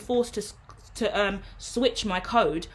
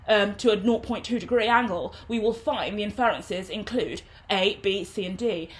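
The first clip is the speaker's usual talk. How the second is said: official corporate voice. Shown as a demonstration. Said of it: "then I'm talking very officially".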